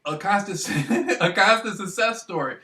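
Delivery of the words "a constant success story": said through a real laugh. Real, not acted. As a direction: chuckle the words out.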